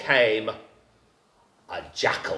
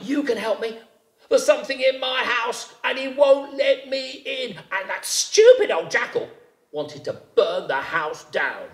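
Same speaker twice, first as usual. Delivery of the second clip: high frightened rabbit; startled rabbit; 8 semitones higher than usual. A narrator's reading. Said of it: "said Rabbit".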